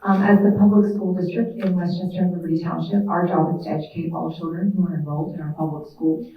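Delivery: loud, carrying classroom voice; projected teacher voice. Real, not acted. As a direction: project to the back of the room. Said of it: "I can try to project with my teacher voice".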